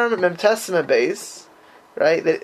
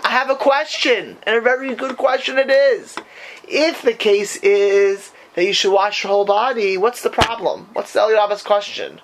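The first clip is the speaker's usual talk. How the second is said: raised, emphatic teacher's pitch; animated challenge; 4 semitones higher than usual. Real, not acted. Teacher putting a rabbi's hard question to his students, animated challenge. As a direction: build up the big question for the students.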